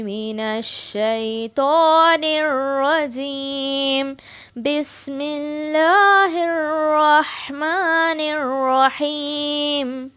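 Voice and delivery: slow, measured tajweed recitation; Quran recitation. Shown as a demonstration. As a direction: chant it slowly for students to copy. Final model recitation.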